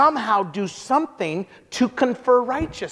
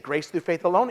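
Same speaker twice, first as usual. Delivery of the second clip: rising, questioning repeat of "Grace through faith alone?"; lower, softer and rising at the end; surprised echo; 5 semitones lower, 3 dB quieter than usual. Retold or imitated. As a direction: echo it back in disbelief. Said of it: "And she said".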